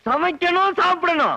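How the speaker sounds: high, pressing repetition; insistent repetition. Acted. Boss insistently repeats himself.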